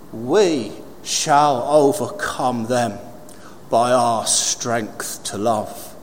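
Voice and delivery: slow, measured reading of a famous speech; solemn quotation. Real, not acted. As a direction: weigh each phrase, with long pauses.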